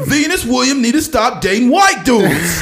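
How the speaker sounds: loud, high ranting pundit voice; Stephen A. Smith. Retold or imitated. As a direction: bellow the hot take with a laugh. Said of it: "Stephen A. Smith impersonations".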